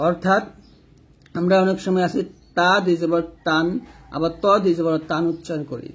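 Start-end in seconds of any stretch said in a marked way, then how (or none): 2.6-3.7 তা and তান with a light, thin t. Shown as a demonstration. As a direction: say তা দুই জবর তান with a plain tongue-tip t and open a. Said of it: "তা এবং ত দুইটা কিন্তু এক হবে না".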